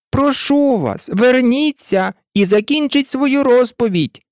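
high, imploring call; calling after someone. A narrator's reading. Alice calling after the departing mouse, imploring. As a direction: call out pleadingly, pitched high. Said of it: "гукнула Аліса вслід".

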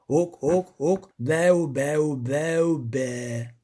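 grunting bleats fading out; goat bleating. A narrator's reading. Creature keeps bleating at them, goatish.

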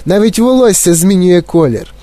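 high-pitched panicked mother; crying out. A narrator's reading. Mother watches her daughter turn violet, crying out. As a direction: exclaim with growing alarm. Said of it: "кричала пані Борегард".

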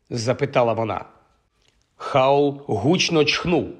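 ordinary delivery, nothing marked

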